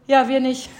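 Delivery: mildly deadpan retort; dry remark. Retold or imitated. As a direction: lightly imitate a dry reply. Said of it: "So richtig trocken". (leicht trocken nachgeahmt)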